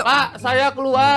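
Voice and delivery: slow, deliberate quit line; very slow, firmer take; a bit fiercer. Shown as a demonstration. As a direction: try to sound braver, slowly. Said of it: "Gaharin lagi, ayo".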